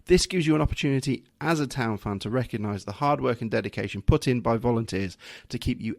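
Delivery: polished announcer read for a club video; smooth, formal presenter delivery; posh presentation voice. Acted. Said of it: "your posh presentation voice there".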